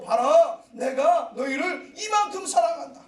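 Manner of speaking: a loud, ringing proclamation of love; proclaiming loudly. Acted. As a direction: declare it over the people. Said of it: "God declaring love". (크게 외치는 하나님 아버지)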